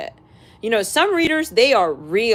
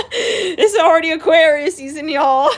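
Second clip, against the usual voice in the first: louder, higher words through real laughter; laughing while talking; 6 semitones higher, 7 dB louder than usual. Real, not acted. Vlogger laughing at her own rant to viewers, real laughter. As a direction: crack up mid-sentence.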